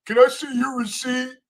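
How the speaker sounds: high-pitched put-on greeter voice; mock store greeter. Host mocking Zeke as Walmart greeter, high put-on voice.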